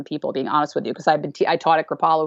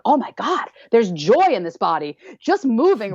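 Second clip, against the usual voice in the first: higher, delighted discovery; joyful exclaim; 4 semitones higher than usual. Retold or imitated. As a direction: gasp with sudden joy. Quoted joyful realisation.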